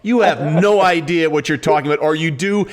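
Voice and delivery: retold angry retort. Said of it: "I was triggered".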